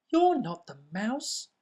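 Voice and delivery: high, challenging little monster voice; a small monster squaring up to a stranger; Gruffalo's child. Acted. Gruffalo's child to snake, high and challenging.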